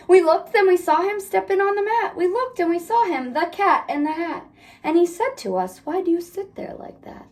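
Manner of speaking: lively read-aloud storytelling; story narration. A narrator's reading. Parent reading The Cat in the Hat to kids, lively storybook voice. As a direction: read it like a bedtime picture book.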